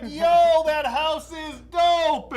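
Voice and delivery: high, slow, laid-back dude; cool guy voice. Retold or imitated. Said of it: "I'm gonna fly over there and be like".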